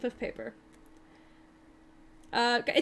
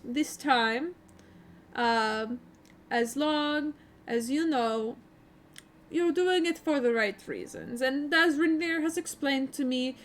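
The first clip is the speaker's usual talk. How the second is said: put-on Barovian accent. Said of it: "he kinda goes".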